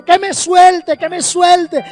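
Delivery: put-on high-pitched insistent child's demand; child's tantrum. Girl to her parents holding her, tantrum. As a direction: imitate a stubborn little girl throwing a fit. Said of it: "empezó a hacer un berrinche".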